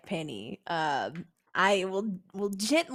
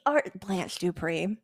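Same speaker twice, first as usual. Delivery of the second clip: ordinary talk, nothing marked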